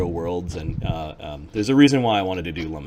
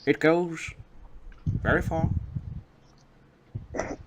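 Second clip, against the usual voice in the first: grandfather voice; 6 semitones higher than usual. Acted. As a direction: explain like a wise grandfather.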